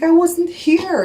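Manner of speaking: high, slow, sing-song mock innocence; mocking innocent denial. Wife mocking the mechanic's innocent act, slow and high. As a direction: drag it out like a kid playing dumb.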